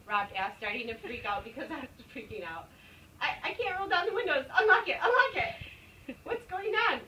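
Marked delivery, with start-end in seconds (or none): 3.2-6.2 high, loud frantic yells breaking into laughter; panicked yelling. Retold or imitated. Trapped in the car yelling at Rob, panicked shouting. 6.2-7.0 yelling. Retold or imitated. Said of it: "Rob yelled back at me".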